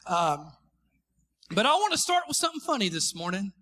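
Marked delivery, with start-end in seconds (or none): 1.6-3.5 put-on quick Houston-accented opener; lively put-on Houston accent. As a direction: imitate a preacher with a Houston accent. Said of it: "Is that Houston accent enough for you".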